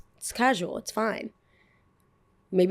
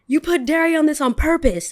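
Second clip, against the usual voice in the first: higher-pitched imitation of an angry customer; mock accusing customer; 7 semitones higher than usual. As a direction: accuse in a mock-indignant high voice.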